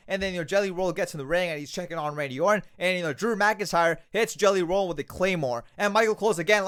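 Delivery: normal talking voice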